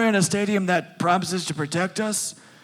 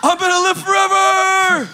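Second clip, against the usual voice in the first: loud high whoop; excited shout; 12 semitones higher, 6 dB louder than usual. Real, not acted. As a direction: yell it triumphant. Player exults loudly.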